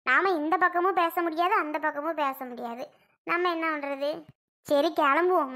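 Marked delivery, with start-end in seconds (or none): 1.6-4.1 softer, sighing resignation; resigned, dropping away. Real, not acted. Woman sighs softer over being caught between both sides. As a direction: let பக்கமும் sink, voice falling off softer. Resigned aside about family quarrel.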